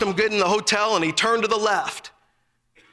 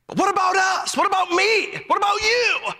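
rising challenge; 8 semitones higher than usual. Acted. Preacher challenging the congregation.

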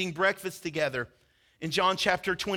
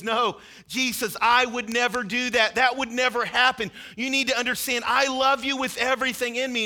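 pleading, louder and higher; earnest protest; 4 semitones higher, 4 dB louder than usual. Acted. Peter vowing to Jesus he will never desert him, louder and higher. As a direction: insist with all your heart.

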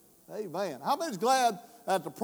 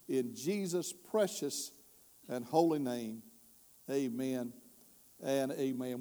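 prayer; 3 semitones lower than usual. Acted. Prays over the word.

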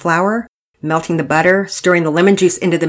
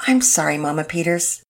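earnest apology. Acted. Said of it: "Penelope's apology was earnest".

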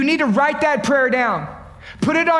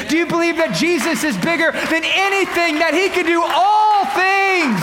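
rising preaching call; 3 semitones higher than usual. Real, not acted. Preacher climaxing altar appeal.

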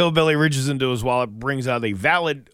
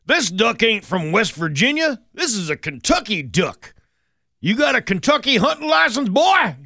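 hammed-up game warden, higher and louder; 9 semitones higher, 4 dB louder than usual. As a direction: play a mock angry country game warden. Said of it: "and says".

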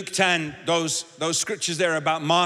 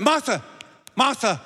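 urgent call; 4 semitones higher than usual. Shown as a demonstration. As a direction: call her name twice to snap her back. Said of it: "he's like".

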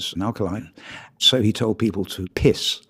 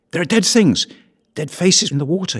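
horrified cry; 8 semitones higher than usual. A narrator's reading. Sam sees corpses in the marsh, crying out in horror. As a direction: recoil from the dead faces in the water. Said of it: "he said with horror".

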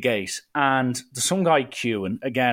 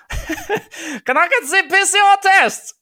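high, slow, laughing mock German accent; 8 dB louder, slower than usual. Agent at the gate asking for the test, laughing mock German accent. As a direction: ham up a German accent, cracking up. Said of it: "she wasn't German, for the record".

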